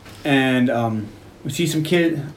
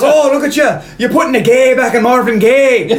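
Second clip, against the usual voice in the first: high, punchy retold taunt; mocking taunt; 6 semitones higher, 3 dB louder than usual. Coach ridicules young punks, mocking. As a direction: needle them like a cocky coach.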